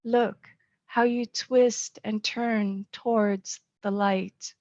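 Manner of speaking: measured, earnest poetry recital with weight on key words; poem reading. Acted. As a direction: read it to your children like a gift. Reads her poem aloud.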